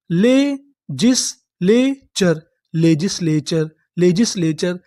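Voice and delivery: slow syllable by syllable; spelling it out by codes. Shown as a demonstration. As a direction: piece the word together. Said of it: "teacher sounds out word by code".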